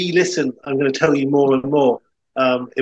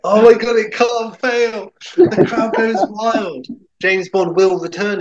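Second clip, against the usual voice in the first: excited gushing; 8 semitones higher, slower than usual. Real, not acted. Gushing reaction to the pitch.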